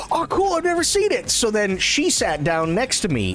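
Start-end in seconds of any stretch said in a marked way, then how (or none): 0.1-1.3 put-on high, quick, breezy girlish voice; retold girlfriend's casual high-pitched delight; chirpy imitation of Jen. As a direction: toss it off lightly, like she doesn't care. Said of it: "she's like".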